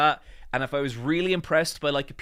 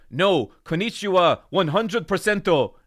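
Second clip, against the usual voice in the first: louder, higher playful answer; jokey reply; 4 semitones higher, 8 dB louder than usual. Retold or imitated. Tourist joking to a shop clerk, loud and playful. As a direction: ham it up with mock confidence. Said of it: "And I just go".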